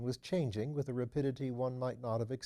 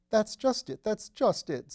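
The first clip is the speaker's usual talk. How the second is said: much higher, louder eager agreement; 11 semitones higher, 8 dB louder than usual. A narrator's reading. Phipps eagerly agreeing with his lordship, higher and louder. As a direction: jump at it eagerly. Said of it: "said Mister Phipps eagerly".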